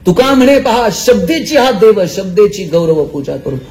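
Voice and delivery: slow, measured recitation of sacred verse; abhang recitation. Acted. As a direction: intone each line of Tukaram slowly. (संथ अभंग पठण)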